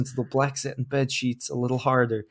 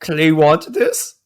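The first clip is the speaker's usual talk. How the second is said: slow, loud monster voice; gruff Cookie Monster, dragged out; 4 semitones higher, 8 dB louder, much slower than usual. Acted. Reading monster's line in fan fiction.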